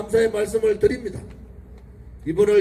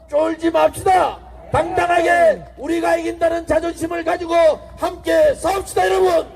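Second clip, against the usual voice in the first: shouted, rising political oratory; roaring rally speech; 4 semitones higher than usual. Acted. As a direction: rouse the crowd at full voice. Rally speech at full force.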